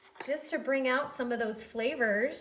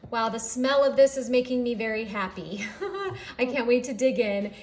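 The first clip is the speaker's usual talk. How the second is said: excited; 5 dB louder than usual. Real, not acted. Delighted at finished dish.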